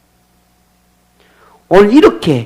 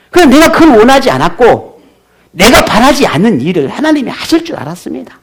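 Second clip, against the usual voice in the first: Jonah's grievance; 6 semitones higher than usual. Retold or imitated. 도망친 요나가 하나님께 항의하며, 높고 큰 소리로. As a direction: argue back at God, raising the voice. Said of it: "요나는 마음에 있는 이 분노를 쉽게 잠재울 수가 없습니다".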